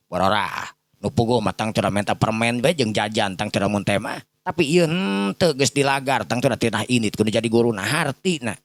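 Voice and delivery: plain reading voice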